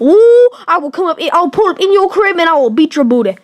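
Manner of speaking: sassy threatening black voice; hammed-up street threat, African American accent. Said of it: "now I'm doing my black voice".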